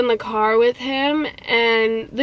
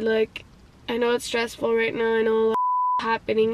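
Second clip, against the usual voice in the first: lower, softer reassuring voice; gentle retold comfort; 3 semitones lower, 5 dB quieter, faster than usual. Friend consoles her after wiping her tears, gently reassuring. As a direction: imitate him consoling softly.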